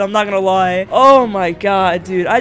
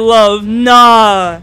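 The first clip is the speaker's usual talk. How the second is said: ordinary delivery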